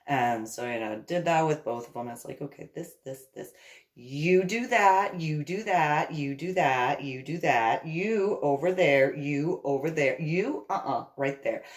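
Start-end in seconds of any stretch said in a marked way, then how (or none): 3.9-11.6 slow, louder pointing orders, each one a command; bossy commands. Retold or imitated. Hostess handing out kitchen jobs to the guys, bossy and louder.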